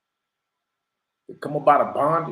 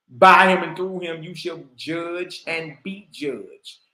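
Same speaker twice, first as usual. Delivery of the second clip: slower repeat; 5 dB louder, slower than usual. Shown as a demonstration.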